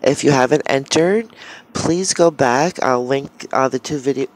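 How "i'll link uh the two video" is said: hiccuping mid-sentence; with hiccups. Real, not acted. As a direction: talk through the hiccups. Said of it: "I have the hiccups".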